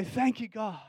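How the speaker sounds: hushed, breathy-free murmured thanks; soft thank you. Retold or imitated. Preacher murmuring thanks to God, quietly. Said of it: "it makes me go".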